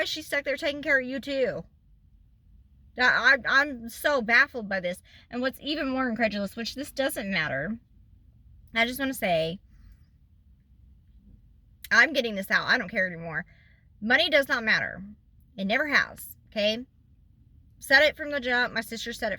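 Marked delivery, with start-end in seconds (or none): none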